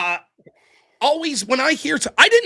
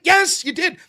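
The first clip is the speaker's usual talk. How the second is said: animated, higher-pitched insistence; 5 semitones higher, 3 dB louder, slower than usual. Real, not acted. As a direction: insist on it, getting worked up. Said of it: "I got a little fucking animated there".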